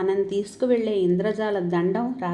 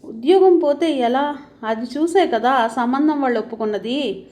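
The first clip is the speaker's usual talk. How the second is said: worried; 4 semitones higher, 5 dB louder than usual. A narrator's reading. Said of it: "దిగులుగా అంది గీత".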